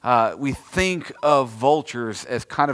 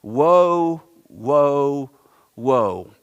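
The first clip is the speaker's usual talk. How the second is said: crying out; 3 dB louder, much slower than usual. Acted. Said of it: "cries out with a loud voice".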